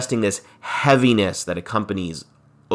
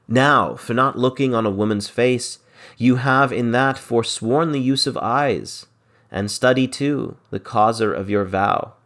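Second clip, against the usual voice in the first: verse reading; 2 semitones higher than usual. Acted. Teacher reading Shakespeare's lines to the class, lightly dramatic. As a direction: read the verse line with a touch of drama.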